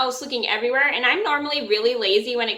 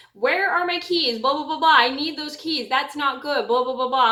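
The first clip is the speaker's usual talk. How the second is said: irritated mom; 3 semitones higher than usual. Retold or imitated. Retelling her irritated mom demanding her lost keys, mock irritated. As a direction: play the annoyed mother demanding her keys. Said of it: "She's like".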